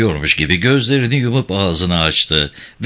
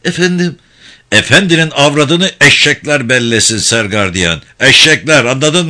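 a loud, furious jab at the guard; angry scolding; 4 dB louder than usual. Acted. Prison director berating the head guard, loud angry snap. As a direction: spit the insult out loud.

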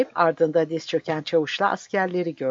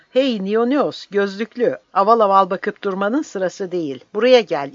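much higher, louder furious yell; angry shout; 5 semitones higher, 6 dB louder than usual. Acted. Sergeant yelling angrily at the dazed soldier Nionios. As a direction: bark him back to work. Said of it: "öfkeli bir sesle haykırıyordu".

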